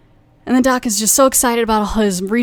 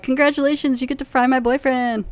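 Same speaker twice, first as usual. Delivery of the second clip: higher, sing-song mock congratulations; mock cheery; 5 semitones higher than usual. Corley tells the old lady she won, mock cheery. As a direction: announce it brightly with a sarcastic lilt. Corley announcing lady's win.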